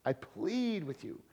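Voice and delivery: softly begging, leaning on "plead"; slow, hushed appeal. Retold or imitated. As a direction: imitate a gentle, earnest plea, dropping the volume. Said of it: "He's begging them".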